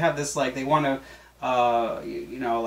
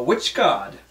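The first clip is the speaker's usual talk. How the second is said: joking comeback; 5 dB louder than usual. Retold or imitated.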